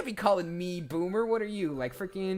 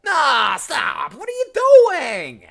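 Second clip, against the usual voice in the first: much higher, much louder, panicked; alarmed yell; 10 semitones higher, 14 dB louder, slower than usual. Shown as a demonstration. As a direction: yell at them to stop. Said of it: "I am Steve".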